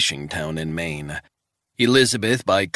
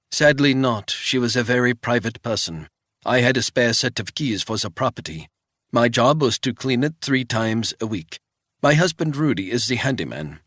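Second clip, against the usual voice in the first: put-on old Swiss woman, higher and louder, thick Swiss accent; wary old housekeeper in a thick Swiss accent; old housekeeper questioning a stranger, thick Swiss accent; 5 semitones higher, 3 dB louder than usual. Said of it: "in a thick Swiss accent".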